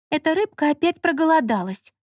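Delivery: a hint of a chatty young woman; light girlish voice for Lola; Lola's voice. A narrator's reading. Lola voiced, female character.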